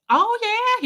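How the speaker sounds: sergeant's voice. Retold or imitated. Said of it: "And he was like".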